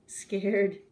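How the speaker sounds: hammed-up fright, high then dropping; terribly scared. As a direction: squeal it like a trembling cook. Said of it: "the cook declared".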